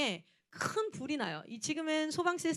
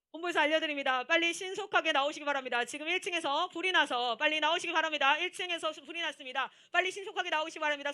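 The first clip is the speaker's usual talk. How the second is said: urgent announcer voice over the mic, a bit raised; mock emergency broadcast; 4 semitones higher than usual. Speaker retells faking a fire alarm announcement on the PA. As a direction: play the HQ making an emergency announcement. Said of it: "그 마이크 잡고".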